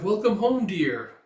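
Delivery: high, loud welcome-home call; eager greeting. Retold or imitated. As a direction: greet your husband from upstairs. Wife greets returning husband.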